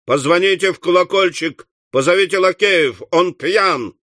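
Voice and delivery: understated enraged master; furious roar. Acted. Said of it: "в бешенстве заревел старый Уордль".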